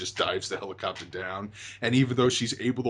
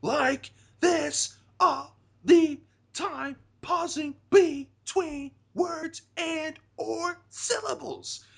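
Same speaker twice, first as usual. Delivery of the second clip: very high, slow mock tantrum yell; imitated tantrum, yelling word by halting word; Monica; 4 dB louder, much slower than usual. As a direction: break it into separate high, drawn-out bursts, pausing between syllables. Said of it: "threw one of her tantrums, because she would yell like this".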